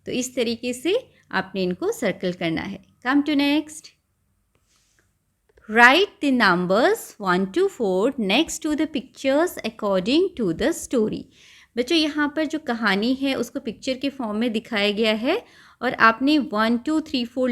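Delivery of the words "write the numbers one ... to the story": very slow, each word spaced out; slow question reading. Shown as a demonstration. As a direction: read the question aloud for young learners. Teacher reads instruction.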